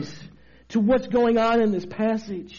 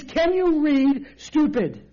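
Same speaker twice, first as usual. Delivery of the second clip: slow, raised-pitch putdown; mock condescension; 4 semitones higher, slower than usual. Preacher voicing Jesus to the law expert, mock condescending. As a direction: draw it out as if to someone dim. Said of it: "in the Greek that literally means".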